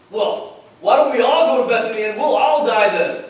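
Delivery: loud sarcastic suggestion; exasperated, sarcastic retort. Retold or imitated. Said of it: "they start getting sarcastic with Jesus".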